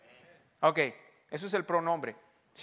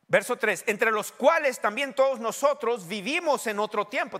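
emphatic preaching; 7 semitones higher, 7 dB louder than usual. Real, not acted. Preaches at full force.

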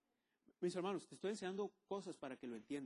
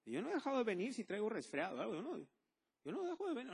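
laughing; 5 semitones higher than usual. Real, not acted. Laughing about coming while sick.

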